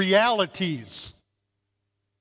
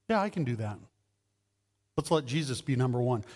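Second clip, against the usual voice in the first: grudging agreement; 7 semitones lower, 7 dB quieter, faster than usual. Retold or imitated. Churchgoer grudgingly agreeing to put Jesus first, low and soft. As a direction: lower and much softer, reluctant. Congregant's grudging answer voiced.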